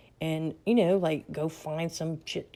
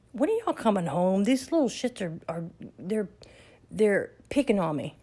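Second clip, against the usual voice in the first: a touch higher, louder mock complaint; mock whine; 3 semitones higher, 4 dB louder than usual. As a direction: whine to big sister for rescue. Whining to sister on phone.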